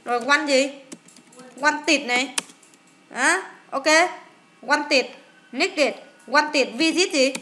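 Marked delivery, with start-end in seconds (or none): 1.6-2.1 "One tịt" with ED sounded as a full "tit" syllable. Shown as a demonstration. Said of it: "Tại sao đọc là it?". 4.7-6.7 "One tịt, nick địt" with each ED ending voiced as an extra syllable. Shown as a demonstration. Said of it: "Tại sao đọc là it?".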